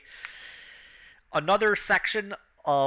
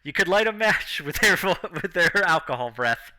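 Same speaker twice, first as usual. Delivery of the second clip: lightly raised announcer, laughing through it; 3 semitones higher, 4 dB louder than usual. Acted. Announcer mocking the drunk contestants, giggling showman voice. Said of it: "The announcer's just like".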